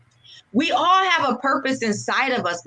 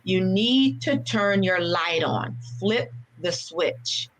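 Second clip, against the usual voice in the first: pastor's solemn advice; 4 semitones lower, slower than usual. Retold or imitated.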